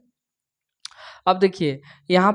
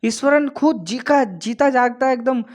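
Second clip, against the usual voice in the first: higher, eager enthusing; excited praise; 5 semitones higher than usual. Real, not acted. Teacher enthusing to students about the storyteller. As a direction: sell how amazing he is.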